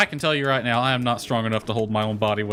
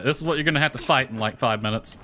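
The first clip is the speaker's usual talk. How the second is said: fast game quote; faster than usual. Retold or imitated. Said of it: "it's like".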